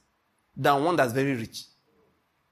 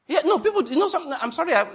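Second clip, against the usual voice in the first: laughing outburst; 12 semitones higher, 3 dB louder, faster than usual. Real, not acted. Laughing outburst mid sermon.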